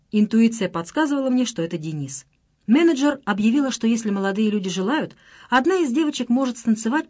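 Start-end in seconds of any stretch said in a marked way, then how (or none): none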